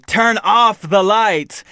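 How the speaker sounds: slow, spooky ghost read; unearthly voice. Pretend. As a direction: drag it out eerily. Slow spooky reading of an option.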